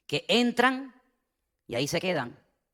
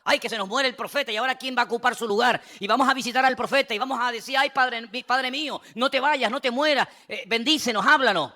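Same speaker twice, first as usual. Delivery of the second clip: high-pitched wailing plea, hammed up; mock lament; 6 semitones higher than usual. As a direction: whine like mourners begging the prophet.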